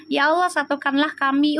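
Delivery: firm, certain plea to God; confident prayer. Shown as a demonstration. Reader showing the right way to pray, with sure confidence. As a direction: pray like it is already granted. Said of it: "Harus yakin, doanya juga harus yakin".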